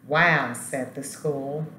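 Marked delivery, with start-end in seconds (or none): 0.1-0.5 a loud, wondering "wow"; amazed wow. Acted. School marveling at the lesson, loud amazed wow. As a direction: gasp it out, truly impressed.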